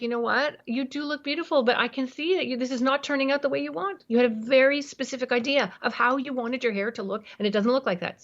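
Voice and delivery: put-on mild urgency, parent mirroring a teen's upset; matching urgency. Shown as a demonstration. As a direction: meet her panic with matching energy. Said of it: "can you hear the urgency in my voice".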